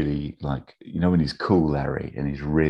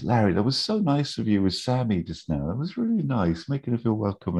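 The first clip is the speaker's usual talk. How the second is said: higher-pitched, imitated gratitude; gushing thanks; 7 semitones higher than usual. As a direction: lean in with acted, higher-voiced appreciation. Voices Susie thanking Larry sincerely.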